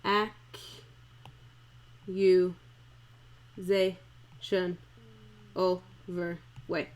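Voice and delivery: "Accusation" stretched very slowly, every syllable sounded; "Accusation" dragged out, each syllable counted; drawn-out accusation. Shown as a demonstration. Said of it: "I missed a syllable".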